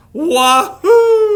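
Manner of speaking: high, loud whoop of joy; the duck cheers on his tractor with a high, loud whoop. Acted. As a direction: let it fly like a joyride. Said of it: "yelled Duck".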